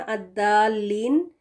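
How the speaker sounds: الدالین slowly, as "ad-daa-leen" with light d; tongue-tip d in الدالین; wrong reading الدالین, thin Daal for heavy Daad; mistaken Daal. Shown as a demonstration. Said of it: "یہ دال کے ساتھ بھی نہیں پڑھنا".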